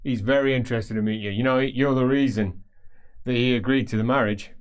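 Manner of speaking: a hint of a cheerful heavy talking up his father; Absalom Trot, friendly thug. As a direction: play the big scarred baron, all easy menace. GM holds Absalom Trot's voice.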